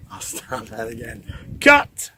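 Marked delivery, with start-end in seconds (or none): 1.6-2.1 sudden high, loud call; loud mock director's cut; director's shout. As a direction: call "cut" on your own take. Stops his own take, director style.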